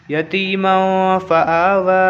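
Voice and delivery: "यतीमों फ़ा आ वा" slowly, "मों" hummed in the nose; ikhfa nasal hold. Shown as a demonstration. Teacher completes the phrase, ikhfa nasal hold. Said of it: "इसको भी वैसे ही पढ़ेंगे".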